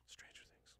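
awed whisper of the title; soft unvoiced awe. Real, not acted. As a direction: breathe the name in reverence. Reverent whisper of show name.

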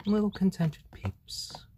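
soothing whisper. Real, not acted. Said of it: "calm and soothing".

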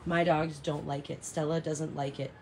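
ordinary delivery

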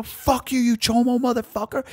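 high, sharp mock yell at Billy; retold yelling. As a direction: spit it back like a prison insult. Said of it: "so we're yelling back and forth".

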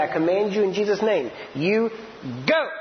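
firm authoritative command, last word punched. Shown as a demonstration. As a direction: speak it from the spirit, like you mean it. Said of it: "You hear that?".

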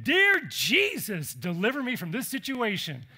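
hammed-up plea of someone scared; mock desperate prayer. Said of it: "may have been saying".

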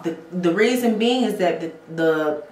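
tripping over words, restarting them; stuttering. Real, not acted. Explaining lash glue to viewers, stuttering. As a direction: stumble and repeat words mid-explanation.

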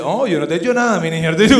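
feigned innocence, a touch sweet; mock innocent girl. The girl pretending she did nothing to her man. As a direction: play dumb, all innocence. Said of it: "Y ella dice".

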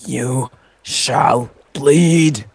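sneering panto villain. Acted. Mock villain threat.

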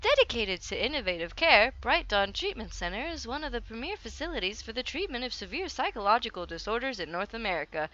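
sing-song promotional read; put-on brochure voice. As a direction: read it like an advert, pitch swooping. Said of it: "should not do that with my voice too often".

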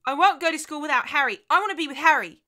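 put-on high, loud, tearful little girl pleading; a small girl begging through tears; weeping child. A narrator's reading. Little girl begs her mother in tears, high and loud. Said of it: "She began to weep".

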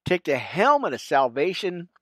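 measured King James reading; scripture reading. Real, not acted. Pastor reading Ephesians to his friends, measured and solemn. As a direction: read the armor verses with steady weight.

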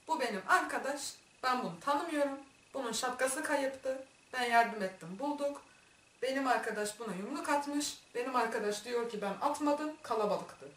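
halting, simple phrases one by one; bozuk Korece taklidi. Retold or imitated. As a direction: imitate struggling through broken foreign speech. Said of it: "Saçma sapan Korecemle". (kırık dökük, tane tane anlatım)

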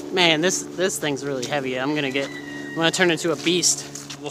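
winded, puffing between words; out of breath. Real, not acted. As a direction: talk while catching your breath. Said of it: "Look, I'm already out of breath".

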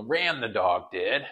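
a light, slowed Yoda voice, barely changed; hint of Yoda, words dragged out slowly; Yoda talk. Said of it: "they'll Yoda it".

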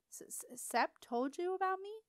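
stammered start, then jumping up high in disbelief; can't believe his friend mentioned him; shy boy stunned and stammering; flustered surprise. A narrator's reading. Beetle flustered, goes red.

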